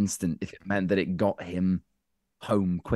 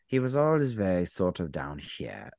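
ordinary delivery

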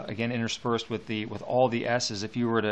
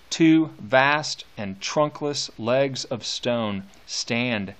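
slow, deliberate reading of a poem, first line louder; poem recitation; 4 dB louder, slower than usual. Shown as a demonstration. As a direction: read each image slowly, letting it sink in. Teacher reads poem aloud.

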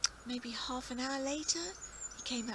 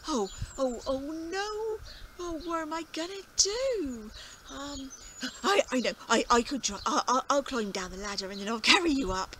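high, loud flustered farmer; fret, then blurt the plan; fretting old farmer; 4 semitones higher, 8 dB louder than usual. Acted. Farmer frets then plans.

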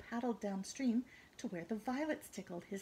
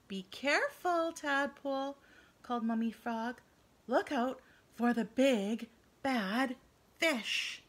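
calling out; 3 semitones higher, 5 dB louder, slower than usual. Acted. Mummy Frog calls warning.

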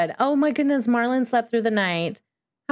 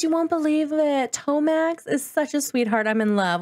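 giddy girl in love, voiced a little higher; Ariel gushing; 4 semitones higher than usual. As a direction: gush about the new boyfriend, lightly voiced. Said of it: "Ariel says".

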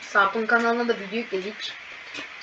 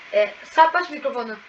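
louder call of the name; raised call to a friend beside you; calling out to Sarp; 5 dB louder than usual. Shown as a demonstration. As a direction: call across to a friend in the room. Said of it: "İsterseniz sesini de şey yapabilirim".

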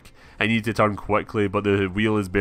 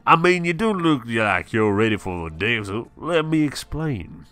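storekeeper Calvin; 4 semitones higher than usual. Acted.

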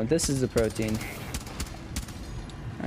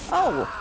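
startled cry; 10 semitones higher than usual. Real, not acted. Hit by boss.

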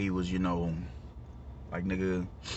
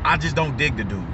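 raised, punchy first statement of dislike; emphatic verdict; 4 semitones higher than usual. Real, not acted. To the viewers, declaring his dislike of the dude, emphatic. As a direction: say it firmly, pushing the point.

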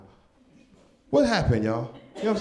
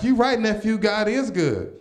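a bit higher churchy auntie agreeing; sweet approving aunt, slightly raised; lightly voiced auntie; 5 semitones higher, slower than usual. Auntie answering nephew's Facebook post, a touch higher. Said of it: "my auntie be like".

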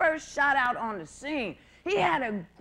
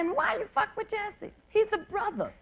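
mock people. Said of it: "And people say".

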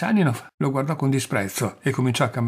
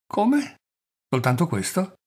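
a mean little jab, voice leaping up on Come; mock him with a spiteful smile; nasty smile; 6 semitones higher than usual. A narrator's reading. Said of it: "con un sorriso cattivo".

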